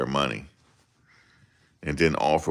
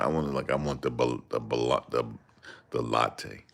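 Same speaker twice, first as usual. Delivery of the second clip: stumbling bougie order; 4 semitones lower, 6 dB quieter than usual. Retold or imitated. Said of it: "trying to be bougie".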